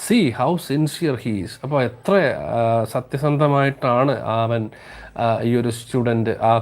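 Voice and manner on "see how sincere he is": slow, careful read-aloud for the class; slow story reading. Acted. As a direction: read each word out slowly to students. Teacher reads story slowly. (പതുക്കെ കഥ വായിക്കുന്നു)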